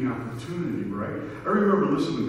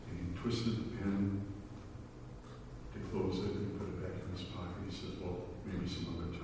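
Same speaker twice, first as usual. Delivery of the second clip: hushed retelling; 5 semitones lower, 12 dB quieter than usual. Retold or imitated. Preacher retells quiet plane story.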